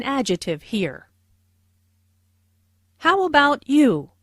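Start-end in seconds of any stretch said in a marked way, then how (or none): 3.0-4.1 How about you? falls at the end; falling intonation on the question; falling tune. Shown as a demonstration. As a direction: let the voice drop on you. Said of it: "Notice the intonation falls here".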